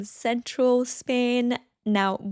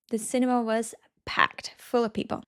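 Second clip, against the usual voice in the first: soft unvoiced whisper; 3 dB quieter than usual. Shown as a demonstration. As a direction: whisper the example quietly. Example sentence whispered.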